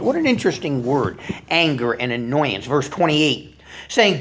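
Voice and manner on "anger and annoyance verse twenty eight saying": ordinary talk, nothing marked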